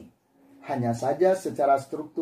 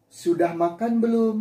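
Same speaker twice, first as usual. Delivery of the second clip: question; 6 semitones higher than usual. Shown as a demonstration. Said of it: "mesti harus mengucapkan".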